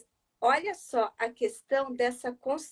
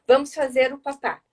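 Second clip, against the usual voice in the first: a light hint of a mother coaxing her toddler to eat; mother coaxing child; 4 dB louder than usual. Shown as a demonstration. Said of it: "você vai fazer assim".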